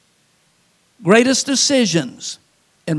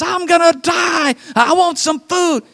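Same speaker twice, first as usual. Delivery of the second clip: hammed-up starving Esau; 9 semitones higher than usual. Esau coming home hungry, hammed-up whining. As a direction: overplay a famished brother.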